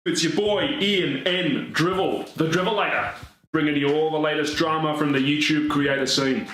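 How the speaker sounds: drama channel host. Acted. Parody YouTuber intro.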